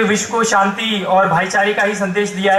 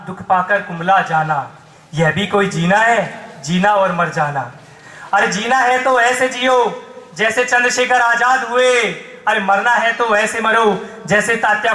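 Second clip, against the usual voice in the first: rousing, rhythmic patriotic declamation; poem recitation. Acted. Poet salutes freedom martyrs before the crowd, declaiming. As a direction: declaim each line as a tribute.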